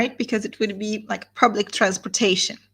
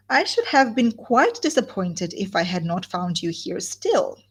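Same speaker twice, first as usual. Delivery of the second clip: final "still" set apart and pitched up; stress on STILL. A narrator's reading. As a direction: lean hard on the last word "still". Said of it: "with a strong emphasis on the word still".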